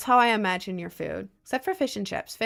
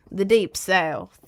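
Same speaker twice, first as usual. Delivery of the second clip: slow mock Southern accent, louder, with the stress on deep and falling; 5 dB louder, slower than usual. Repeating it to chat, louder slow mock Southern accent. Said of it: "in a deep Southern accent".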